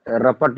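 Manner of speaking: "रपट" as a clipped form of report; unschooled mispronunciation. Shown as a demonstration. Teacher showing unschooled speech, report turned into "रपट". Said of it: "अशिक्षा के कारण उल्टा सीधा बना देंगे".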